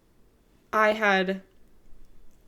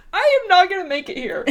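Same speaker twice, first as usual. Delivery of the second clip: mock wail; 8 semitones higher, 7 dB louder than usual. Retold despair to companion.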